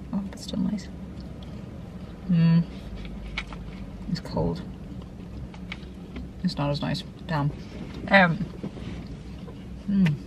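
talking while chewing; muttered through a mouthful of food; mouth full. Real, not acted. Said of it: "I'm gonna be talking with my mouth full".

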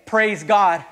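a light laughing praise God; laughing quote. Retold or imitated. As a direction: quote him with an easy chuckle. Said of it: "And you know what he's saying?".

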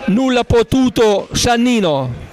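high, shouted goal call, fading down; breathless italian goal commentary. Real, not acted. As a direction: scream the goal, then ride it out. Commentator calls a goal live. (urlo del gol concitato, poi sfumando)

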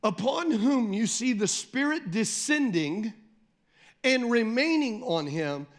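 slow, each word set apart; slow pointed reading. Shown as a demonstration. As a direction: read it slowly so they catch it. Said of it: "one part of this verse I wanna point out".

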